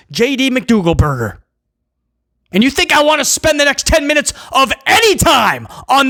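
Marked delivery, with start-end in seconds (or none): 2.5-6.1 fed-up shout at the booking; exasperated shout. Real, not acted. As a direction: yell it in disbelief. Ranting at the booking.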